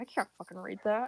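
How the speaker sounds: put-on mumble muttered under the breath. Acting out what he says when he can't read it: muttered under the breath. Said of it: "he mutters it under his breath".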